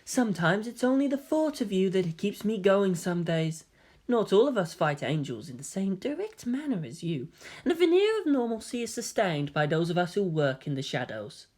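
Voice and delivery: put-on soft, tender boy voice; gentle young man. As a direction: confess it quietly. Voices Kaoru confessing.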